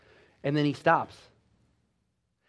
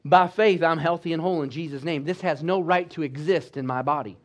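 defiant declaration; 3 dB louder than usual. Retold or imitated. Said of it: "rise right up in the face of it and say".

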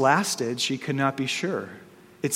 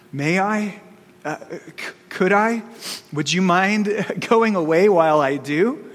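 put-on nervous girl; 4 semitones higher than usual. Frightened girl asks the lion.

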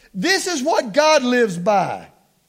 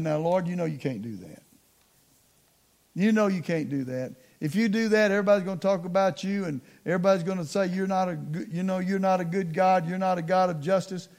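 low, hushed retold plea; Moses reasoning with God; 4 semitones lower, 7 dB quieter, faster than usual. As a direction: talk the Lord down softly. Moses talks God out of anger.

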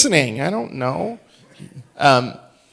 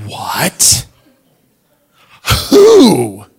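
put-on shocked child; 13 dB louder than usual. Dad imitating his daughter's shocked loud squeal. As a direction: blurt it out, stunned.

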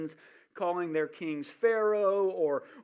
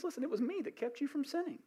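voice of God; 8 semitones higher, 6 dB quieter, faster than usual. Acted. God speaking to the king.

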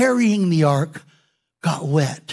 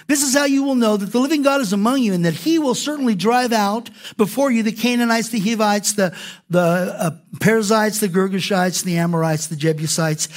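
raised, quick reading of the verse; scripture reading. Acted. Pastor reads scripture to the church, raised and quick. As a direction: read it out to the congregation.

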